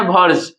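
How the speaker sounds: वर्ज with a lengthened vowel; drawn-out stress. Shown as a demonstration. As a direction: stretch out वर्ज as the stressed part. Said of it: "ये लंबा खींच रहा है".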